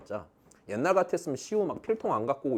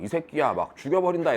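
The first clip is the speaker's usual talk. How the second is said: retold rough threat, a bit louder and higher; mock threat; 5 semitones higher, 5 dB louder than usual. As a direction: bark it like a scary teacher half in jest. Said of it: "내가 말투가 좀 그래갖고". (장난스럽게 거칠게 협박하듯)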